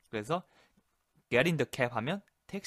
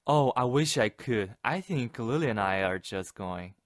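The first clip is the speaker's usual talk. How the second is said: very slow, stretched polite refusal; regretful refusal; 5 dB louder, much slower than usual. Shown as a demonstration. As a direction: let it trail, sorry to say no. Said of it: "한꺼번에 해볼게요". (아쉬운 듯 아주 느린 완곡한 거절)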